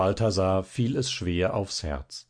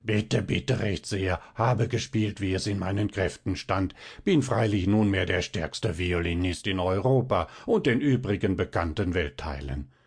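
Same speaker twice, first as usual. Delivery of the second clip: lower, lightly snarled mock modesty; repulsive rasping dwarf; 4 semitones lower than usual. Violinist mimics the dwarf accepting praise, repulsive rasp. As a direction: imitate a smug, nasty little creature. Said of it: "schnarrt mit widriger Stimme".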